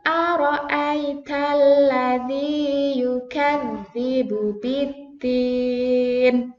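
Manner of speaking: slow, drawn-out chanted verse; slow recitation. Shown as a demonstration. Teacher recites with the class, slow and drawn out. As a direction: stretch each long vowel.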